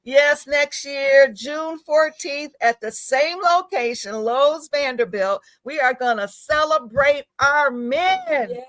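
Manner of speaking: slow, deliberate big reveal; proud announcement. Real, not acted. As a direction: spell out the news slowly for effect. Announcing the new event proudly.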